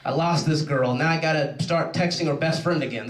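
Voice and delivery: low, self-pitying groan of defeat; hammed-up glum mood; mock dejection. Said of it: "I'm in one of those moods".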